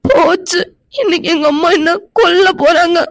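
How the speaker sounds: tearful confession; crying. Acted. Girl crying over the lost lamp. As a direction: weep through the admission. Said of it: "இப்படி போய் அழுதுட்டு இருக்கா".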